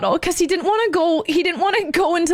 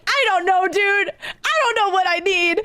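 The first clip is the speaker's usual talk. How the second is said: higher-pitched exasperated panic; flustered; 5 semitones higher than usual. Retold or imitated. Caller asked what she needs, flustered. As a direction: protest helplessly to the dispatcher.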